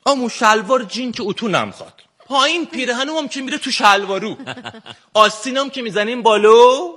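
put-on Shirazi accent. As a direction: speak like a laid-back man from Shiraz. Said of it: "سعی کردم امروز با لهجهٔ شیرازی صحبت کنم". (لهجهٔ شیرازی شل و کشیده)

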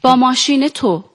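put-on Persian with an Azeri Turkish accent; Ardabili Turkish accent. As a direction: play it with a light Ardabil accent. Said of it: "یه مقدارشو با لهجه بازی بکنید".

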